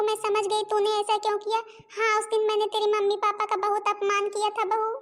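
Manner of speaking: weepy, remorseful plea; tearful pleading. Acted. Mother-in-law begging her daughter-in-law's forgiveness, tearfully. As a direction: beg forgiveness as if crying. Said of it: "mummy जी आप please ऐसे रोइए मत".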